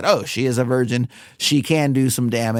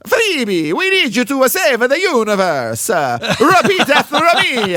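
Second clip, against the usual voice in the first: higher, louder hammed-up German accent; mock German accent; 10 semitones higher, 5 dB louder than usual. Host mimicking the German guy, hammed-up German accent. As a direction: play the scary German professor, German accent. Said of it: "scary German Italian guy goes".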